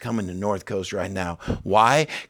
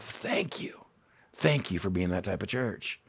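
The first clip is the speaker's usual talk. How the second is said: soft whispered gratitude; whispered thanks; 2 semitones lower, 8 dB quieter than usual. Real, not acted. Pastor whispering thanks to his congregation. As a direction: hush down to a whisper to thank them.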